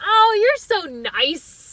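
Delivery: slow, fumbling thank-you instead of love; awkward reply. Retold or imitated. Replying to her friend's I love you, slow awkward politeness. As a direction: stall out an awkward polite answer. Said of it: "my stupid ass went".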